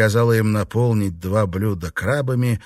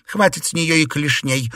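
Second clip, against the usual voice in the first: laughing; 6 semitones higher than usual. A narrator's reading. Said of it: "со смехом ответили".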